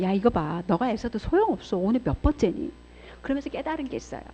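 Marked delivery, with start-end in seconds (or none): 0.0-2.7 accusing voice of Satan. Retold or imitated. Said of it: "사단의 고소소리가 들리는 거야".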